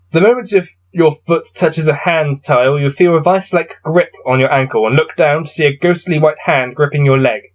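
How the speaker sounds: steady gamebook reading voice; story narration. A narrator's reading. Player reading his gamebook to viewers, narrating. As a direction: read the passage out evenly. Reads gamebook text aloud.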